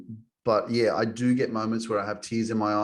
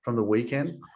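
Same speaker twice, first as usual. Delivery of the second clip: laughing while telling; 3 semitones higher than usual. Real, not acted. Laughing while confessing wild past.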